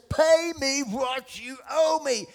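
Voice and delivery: loud, high, slow and forceful; menacing demand. Acted. Servant grabbing his debtor by the neck, angry demand. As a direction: demand it word by word. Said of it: "he grabs him by the neck and says".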